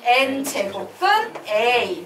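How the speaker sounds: measured chant of "N제곱근 A"; demonstrated reading. Shown as a demonstration. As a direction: stretch "N" and "A" for the class. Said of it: "뭐라고 부를까?".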